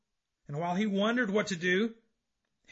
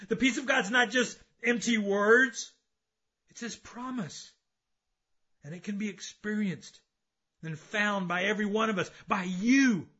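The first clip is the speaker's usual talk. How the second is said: raised, emphatic sermon voice; impassioned preaching; 5 semitones higher, 6 dB louder than usual. Acted. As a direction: preach it out to the congregation. Preaches with force.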